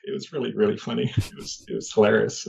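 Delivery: breaking into a quiet laugh through the words. Real, not acted. Man recalling laughing at squid advice, laughing softly. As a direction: let the laugh take over. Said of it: "hilariously laughing".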